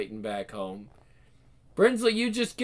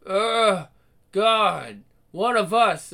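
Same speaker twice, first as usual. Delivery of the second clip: disgust; 5 dB louder, much slower than usual. Acted. Tasting blood, disgust.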